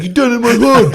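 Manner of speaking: high, loud mock-angry uncle; imitating angry uncle. Nephew retelling his uncle's rage, mock-angry yell. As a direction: bark it like the furious uncle. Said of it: "He's like".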